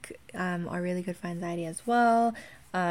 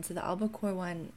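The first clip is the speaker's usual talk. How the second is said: ordinary talk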